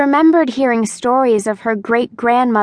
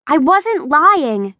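insisting; 6 semitones higher, slower than usual. A narrator's reading. Daughter insisting to her angry father she wasn't lying. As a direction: dig in and insist she's telling the truth. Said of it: "she insisted".

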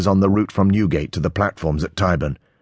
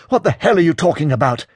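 high, heated hiss; hissed anger; 11 semitones higher, 4 dB louder than usual. A narrator's reading. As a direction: demand it in an angry hiss. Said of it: "Peter hisses".

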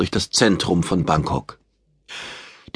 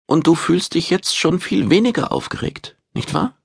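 much higher, gently coaxing woman; 9 semitones higher than usual. A narrator's reading. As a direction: coax him into agreeing, voiced high. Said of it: "fügte sie hinzu".

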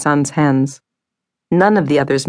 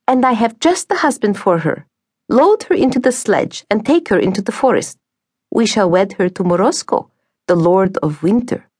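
scheming stepmother; 5 semitones higher than usual. Acted. Stepmother proposes the wedding.

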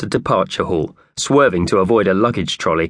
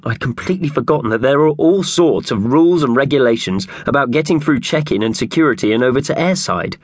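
worried Howard; 5 semitones higher than usual. Acted. Narrator voicing Howard.

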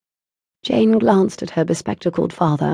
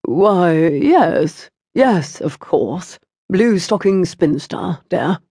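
absent-minded father; much slower than usual. Acted. Distracted father agrees absently.

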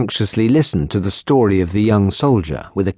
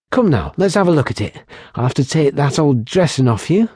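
put-on higher, lively young barmaid voice; teasing barmaid; 5 semitones higher, faster than usual. Barmaid teasing the lieutenant about her healing, higher and playful. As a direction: tease them playfully, brightly pitched. Kylie tends the patient.

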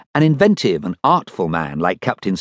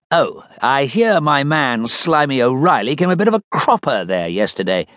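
captain's voice; 5 semitones higher than usual. Acted. Captain talks to Dud.

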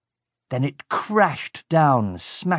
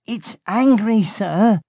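much higher, louder frightened call; frightened henchman; 10 semitones higher, 4 dB louder, slower than usual. A narrator's reading. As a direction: warn the boss in alarm. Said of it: "Blood called".

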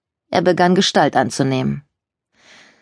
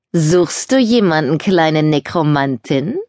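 teasing ghost voice; slower than usual. Acted. Ghost taunts the narrator.

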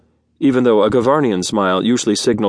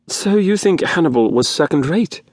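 imitating a whine; 7 semitones higher than usual. A narrator's reading. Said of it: "in a fair imitation of Faldon's whine".

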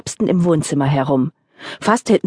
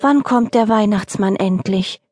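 fox cub asking; 3 semitones higher than usual. Acted. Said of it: "fragte das Füchschen".

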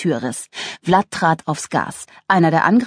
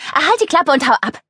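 higher, brusque send-off; irritated, raised-pitch interruption; irritated dismissal; 9 semitones higher than usual. Acted. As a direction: cut them off and send them packing. Woman cuts narrator off.

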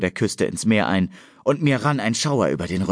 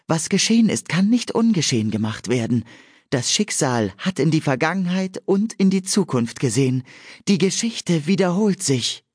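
solemn prophecy; 9 semitones higher than usual. A narrator's reading. Nymph Ewan proclaiming a prophecy by the sea, high and solemn. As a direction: chant it like an entranced seer, pitched high.

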